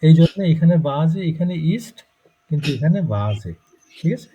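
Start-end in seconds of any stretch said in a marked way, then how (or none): 0.9-1.2 "বা জে" with a voiced Z in the middle. Shown as a demonstration. Teacher contrasts two words for student, Z sound. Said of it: "জ হচ্ছে". 1.7-2.0 "ইস্ট" with a hissed S before T; unvoiced S. Shown as a demonstration. Teacher contrasts two words for student, S sound. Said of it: "ছয়ের মতন হলো". 3.1-3.5 "বা জে" with the middle S voiced as Z. Shown as a demonstration. Teacher sums up the rule for student, Z sound. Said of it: "জ হচ্ছে".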